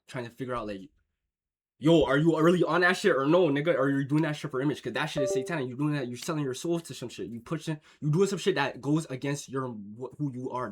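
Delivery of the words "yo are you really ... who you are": confronting. Retold or imitated. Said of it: "I was confronting you behind that".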